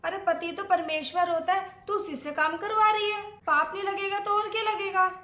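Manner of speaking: rising, reproachful lecture; indignant scolding. Acted. Aunt berates bahu for making husband work, indignant scolding.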